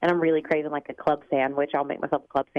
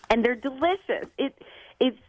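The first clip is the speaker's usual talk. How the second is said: smiling; 9 semitones higher than usual. Real, not acted. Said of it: "I hope you can hear the smile in my voice".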